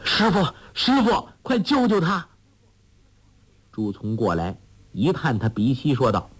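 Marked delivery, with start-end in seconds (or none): 0.0-2.2 high, urgent shout for the master; frantic cry for help. A narrator's reading. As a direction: yell for help in a panic. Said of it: "大叫". (惊慌地高声大叫)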